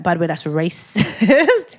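slow, plain and direct with a laugh; blunt call-out. Retold or imitated. Telling people now she calls racism out bluntly. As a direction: say it straight, no softening. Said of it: "but now I'll just be like".

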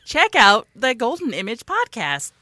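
slow, amateur Canadian promo read; attempted Canadian accent. Host plugging Golden Image podcast in attempted Canadian. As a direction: read the plug in put-on Canadian. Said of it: "And now for Canadian".

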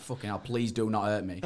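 a laughing, half-hearted plea; comic begging through a laugh; laughing mock plea. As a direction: plead for mercy while cracking up. Laughing as he retells his fear.

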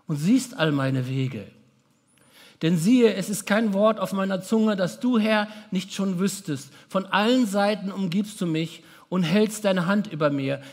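solemn psalm reading, fading to a hush at the end; scripture reading. Acted. Preacher reading a psalm to the congregation, solemn. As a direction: read the psalm as a prayer to the congregation. Reads Psalm 139 aloud.

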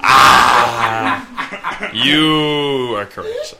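laughing slowly through the words. Real, not acted. Laughing at the host's guess.

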